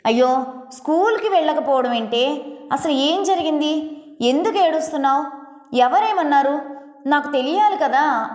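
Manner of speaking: worried mother pressing for answers; urgent, rising worry; a hint of a frantic mother; anxious pleading.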